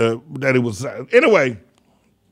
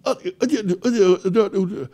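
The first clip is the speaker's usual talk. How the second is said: mock stuttering, higher-pitched stammer; Robert Kennedy; 5 semitones higher than usual. Host mocking how a presidential candidate talks, imitated stutter. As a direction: stammer helplessly on one sound, imitating a halting speaker. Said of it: "why does he talk like that?".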